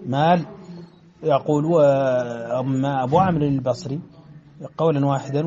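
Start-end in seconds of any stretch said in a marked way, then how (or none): 0.1-0.5 مال stopped on the lam, clipped after l; pause on lam. Shown as a demonstration. Teacher demonstrating a test pause on مال. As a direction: cut مال short right at the l. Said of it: "فيقرأ".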